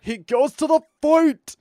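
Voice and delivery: high, loud, drawn-out announcement; dramatic reveal. Real, not acted. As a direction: build it up like a big fight reveal. Hammed-up reveal of the fight.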